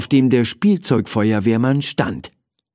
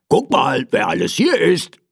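teddy calling out, pitched up; calling over; 7 semitones higher than usual. Acted. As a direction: call over eagerly in a light teddy voice. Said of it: "rief er mir zu".

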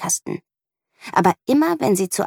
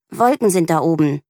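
growling; 4 dB louder than usual. Acted. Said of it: "knurrt Mieke".

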